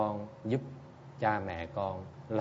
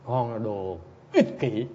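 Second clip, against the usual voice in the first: blunt rebuke; 5 dB louder, slower than usual. Retold or imitated. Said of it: "Thầy nói thẳng luôn".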